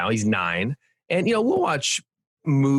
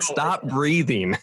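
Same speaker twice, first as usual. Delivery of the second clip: very slow, higher, laughing absurd command; laughing mock order; 4 semitones higher, much slower than usual. Host joking about ordering his wife, slow laughing. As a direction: stretch it out, cracking up at the absurdity. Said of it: "That would be like".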